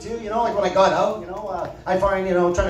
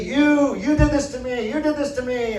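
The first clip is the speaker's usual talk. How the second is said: mock yell; 5 semitones higher than usual. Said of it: "she's yelling and screaming and swearing".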